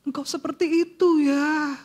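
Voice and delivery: mildly voiced moved prayer to the Lord; tearful prayer. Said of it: "Aku nangis waktu itu".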